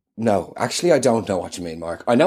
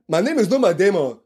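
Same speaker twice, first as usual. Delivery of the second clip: intense, higher action-hero growl; Jason Bourne voice; 6 semitones higher than usual. Acted. Guest insisting he is Jason Bourne, intense action-hero voice. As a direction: play the brooding spy, dead serious. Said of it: "Matt, rein it".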